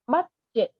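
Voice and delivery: "budget" with BUD short like Vietnamese "mắt"; short open vowel in "budget", stressed on BUD; first syllable like "mắt". Shown as a demonstration. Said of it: "nó giống chữ mắt ấy chị".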